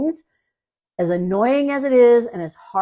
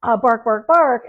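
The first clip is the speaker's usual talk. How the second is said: rising, louder "bark, bark, bark" as the dog; dog's voice building to a louder "bark"; voicing the dog; 2 semitones higher, 4 dB louder than usual. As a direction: play the worried dog building up to barks. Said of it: "what the dog is doing is saying".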